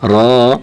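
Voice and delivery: را said heavy and rounded, like "ro"; thick R. Shown as a demonstration. Teacher demonstrating the letter ra, thick heavy R. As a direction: give را a full back-of-mouth "ro" sound. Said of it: "را کو موٹا کر کے پڑھیں گے".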